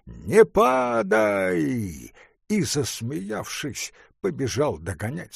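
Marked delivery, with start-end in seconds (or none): 0.0-2.1 put-on drunk student shouting, high; tipsy cry, slow. A narrator's reading. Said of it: "крикнул". (пьяный крик)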